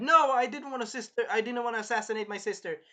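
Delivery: retold denial. Acts princess denying plot.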